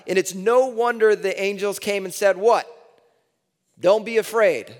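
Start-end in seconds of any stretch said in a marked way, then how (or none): 2.4-4.7 angel's call. Acted. Angels voiced, preacher acting.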